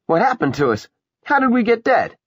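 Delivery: put-on high, loud child's question; little girl voice. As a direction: ask like a puzzled child. Child asks.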